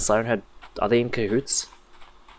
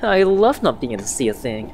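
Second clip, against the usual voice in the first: higher, louder anime dub voice; overacted anime dub; 4 semitones higher, 5 dB louder than usual. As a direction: ham it up like a dubbed anime hero. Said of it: "Why am I talking like an anime character?".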